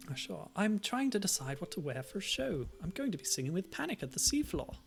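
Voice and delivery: put-on British accent. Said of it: "let's do a different voice. Uh, let me see. British accents".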